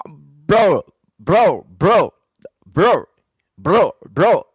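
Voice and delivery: loud, repeated bro in disbelief; loud bro, bro, bro, like you can't believe it; exasperated bro. Real, not acted. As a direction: keep hitting bro, floored. Streamer reacts in shock to comment.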